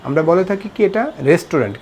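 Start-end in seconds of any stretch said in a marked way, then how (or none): 1.3-1.8 রেস্টুরেন্ট as "res-tu-rent"; common mispronunciation. Shown as a demonstration. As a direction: say all three syllables of রেস্টুরেন্ট. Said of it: "কিন্তু এটা সঠিক উচ্চারণ না".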